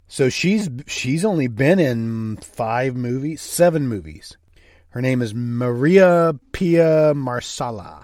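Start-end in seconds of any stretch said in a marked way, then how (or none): 4.9-7.8 put-on American accent, one word drawn out. Correcting a co-host on an actress's name, in an american accent. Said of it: "I said that in an American accent just for you".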